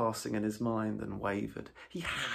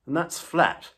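much louder, higher, firm refusal; stubborn Rat; 7 semitones higher, 14 dB louder than usual. A narrator's reading. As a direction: dig in and refuse Toad outright.

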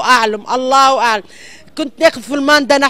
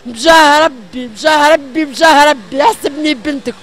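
angry crying; 4 dB louder than usual. Real, not acted. Pleading woman repeats plea.

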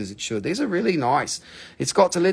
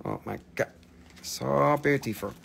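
hushed awe; 6 dB quieter than usual. Real, not acted. Seller marvels at beautiful drusies, hushed awe. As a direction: breathe it out quietly, awestruck.

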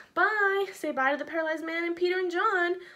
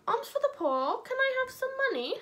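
paralyzed beggar; 12 semitones higher than usual. Acted. Paralyzed man begging passersby for money, high pleading voice. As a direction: beg like a poor man on the street. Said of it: "our paralyzed man".

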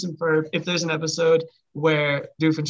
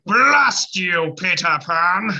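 Captain Hook impression; much slower than usual. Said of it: "Again, the low voices".

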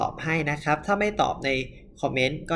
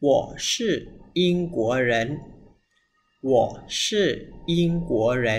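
slow word-by-word; much slower than usual. Shown as a demonstration. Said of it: "หนึ่ง สอง สาม".

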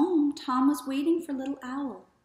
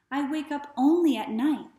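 higher, plaintive little owl question; lightly voiced little owl; 5 semitones higher, 7 dB louder than usual. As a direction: ask it like a puzzled little owl.

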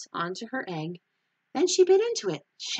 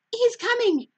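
much higher, louder happy cry; excited cry; 7 dB louder than usual. Acted. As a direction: call out the news with glee. Linus sees the Easter Beagle.

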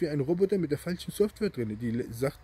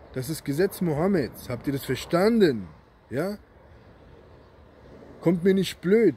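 raised, emphatic angry voice; angry warning; 2 semitones higher, 3 dB louder than usual. Real, not acted. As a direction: lay down the law, hammering stressed words. Angry warning to Sharia defenders. (wütend, laut und drohend)

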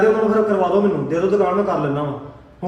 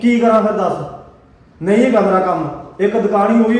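louder, snapping back in frustration; angry outburst; 2 semitones higher, 5 dB louder than usual. Acted. Husband to his scolding wife, angry loud retort. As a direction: throw it back at her, fed up.

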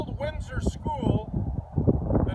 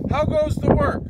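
louder farmer call; 5 semitones higher, 5 dB louder than usual. Acted. Lazy farmer calls to the duck, loud. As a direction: call it out from the bed.

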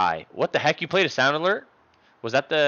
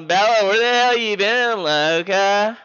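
a touch of a rapper, higher and louder; rapper impression; 8 semitones higher, 6 dB louder than usual. Streamer greeting a viewer as a rapper, lightly voiced. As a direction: call out like a rapper. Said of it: "rapper impression".

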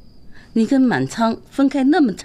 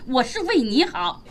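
ordinary talk, nothing marked

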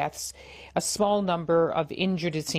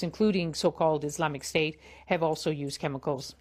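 distorted phone line. Real, not acted. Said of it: "Apologies for the distortion on the line".

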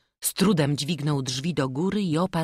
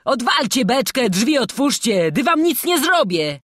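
loud, high, cajoling prisoner; forced jollity, raised voice; laughing plea; 9 semitones higher, 8 dB louder than usual. A narrator's reading. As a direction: plead while making light of it. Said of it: "prosił więzień, śmiejąc się".

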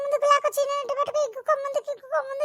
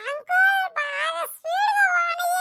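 excited shout; 6 semitones higher, slower than usual. Acted. Child begging uncle go faster.

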